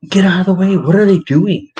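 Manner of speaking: high-pitched exasperated complaint; acted irritation. Husband to his wife about Walmart shoppers, acting irritated.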